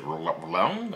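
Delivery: "wrong" attempted as "rlong", with a questioning rise; low, tentative "wrong" with a stray L; tongue-twisted wrong. Shown as a demonstration. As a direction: stumble into "wrong" with an L after the R. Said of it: "my tongue was twisted".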